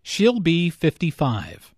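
"fifty-five" stressed as the key answer. Shown as a demonstration. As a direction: lean on "fifty-five", then fall. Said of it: "Notice that fifty-five is stressed here".

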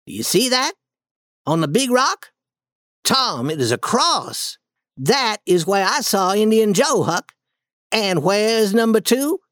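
put-on boy Tom in the cave, tense and eager; Tom voiced, hushed excitement. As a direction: Tom pointing out the cross, tense. Tom shows Huck the cross.

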